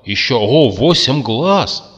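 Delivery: astonished discovery drawn out; amazed. A narrator's reading. Curtis counting the creature's eyes, stunned and slow.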